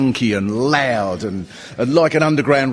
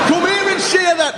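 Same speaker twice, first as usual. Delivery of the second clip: mock shout. Gallery thug challenge.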